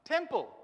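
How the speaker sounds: temple, sounded out clearly; teacher modelling Temple for pupils; Greek word read aloud. Shown as a demonstration. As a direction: say Temple crisply, as a model for the class. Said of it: "T M P L E".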